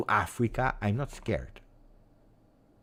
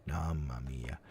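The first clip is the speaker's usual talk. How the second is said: whispered dread; 7 semitones lower, 11 dB quieter than usual. Real, not acted. Fear of crocodiles, muttered to self.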